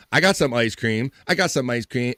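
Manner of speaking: Eddie Murphy bit. Retold or imitated. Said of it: "one of my favorite bits from Eddie Murphy".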